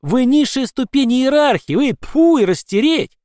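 shouted high, scornful and slow at first; contemptuous shout. A narrator's reading. Scolding an underling, contemptuous shout. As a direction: spit the words out in disgust. Tirade at the lowest rank.

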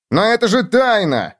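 high-pitched outcry; yelling protest. A narrator's reading. Bedbug objecting to the cockroach coming, yelled protest. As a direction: protest with voice jumping up. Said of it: "заорал Клоп".

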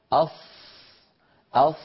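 "أص" with lips pushed forward and rounded; lip-rounded Sad. Shown as a demonstration. Teacher mimicking a common reciters' fault, lip-rounded "أص". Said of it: "وجعلته يختلف في السمع".

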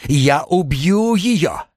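high, stretched, straining cry; furious shriek. A narrator's reading. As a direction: rage as if about to attack. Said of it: "выкрикнула Эйлин".

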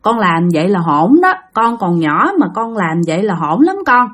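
mother gently coaxes her son to lie down; gentle. Acted. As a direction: soothe the child to sleep. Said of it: "nói nhẹ nhàng với nó".

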